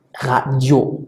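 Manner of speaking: "Radio" with the weight on the final -dio; stress on the last syllable. Shown as a demonstration. Teacher showing French stress falls on the final syllable. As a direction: lean on the end of "Radio". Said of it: "por lo tanto decimos radio".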